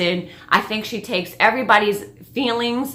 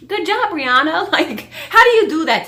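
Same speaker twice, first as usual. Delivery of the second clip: laughing praise, pitched up; real amused admiration; 8 semitones higher than usual. Real, not acted. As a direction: laugh through the compliment.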